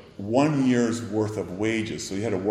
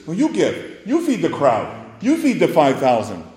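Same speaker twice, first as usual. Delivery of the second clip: firm command; 6 semitones higher, 4 dB louder than usual. Retold or imitated. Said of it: "And yet Jesus says".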